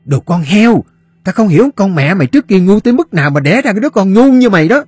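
high, loud, fast scolding; hissing fury. A narrator's reading. Fat woman berating the boy over burnt meat, hissing fury. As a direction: spit the insults out at the boy. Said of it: "rít lên".

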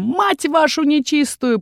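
high, slow cursing cry; falling yell. Acted. Orc curses while crashing down through branches. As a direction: curse it as you fall. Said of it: "Иррой с воплем".

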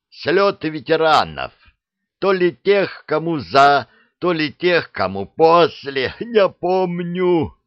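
high, lively beast voice; chattering dragon head. A narrator's reading. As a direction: babble on like an eager monster.

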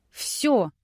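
high, loud cry through tears; tearful cry. A narrator's reading. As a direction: cry out, near sobbing. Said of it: "сквозь слёзы крикнула". (крик сквозь слёзы)

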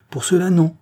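wife declines the hostess's invitation, soft but resolute. A narrator's reading. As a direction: refuse kindly but leave no room. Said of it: "d'une voix douce mais résolue".

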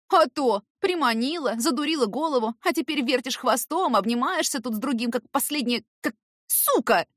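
shouted out in jealousy; shouting. A narrator's reading. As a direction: hurl the insult at her. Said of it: "выкрикнула вдруг Ирка".

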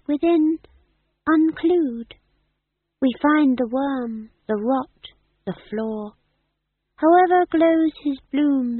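high, slow, grand theatrical verse; actor-manager's tragic recital. Acted. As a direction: declaim like a ham tragedian on stage. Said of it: "But he sounded just like".

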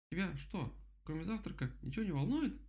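высокий голос возмущённого кролика, не громко; изобрази крик высоким голосом; возмущённый крик кролика. A narrator's reading. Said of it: "заорал кролик". (возмущённо, голосом кролика)

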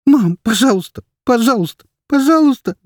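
put-on boy pleading with his mother, rising to a wail; escalating begging. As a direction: beg harder each time. Boy begs repeatedly.

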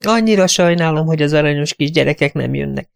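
high, sentimental, sighing voice. Acted. Companion regretting the children won't come, sentimental and high. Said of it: "Sóhajtott érzelgősen".

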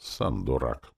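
ordinary delivery, nothing marked

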